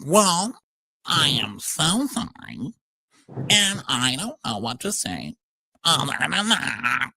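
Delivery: mock serious sorry, slow; slow hammed-up insincere apology. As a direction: drag out a hollow apology slowly. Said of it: "the very serious, monotone, um, insincere apology".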